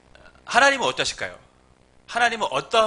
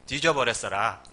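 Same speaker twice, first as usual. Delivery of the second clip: lower-pitched imitation of Jeolla dialect; 5 semitones lower than usual. Shown as a demonstration. Preacher jokes how Jeolla people announce a death, Jeolla accent. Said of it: "전라도는".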